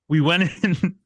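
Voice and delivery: strained voice mid-choke; swallowed wrong way. Real, not acted. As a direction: push words out while choking. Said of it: "I'm choking on water".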